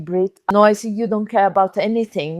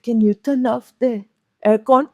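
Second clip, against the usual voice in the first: strained request; 2 semitones higher than usual. Shown as a demonstration. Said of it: "With the face a little bit like this".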